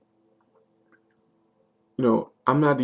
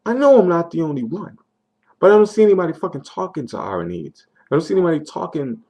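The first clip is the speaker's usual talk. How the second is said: angry; 5 semitones higher, 4 dB louder than usual. Real, not acted. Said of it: "I'm angry".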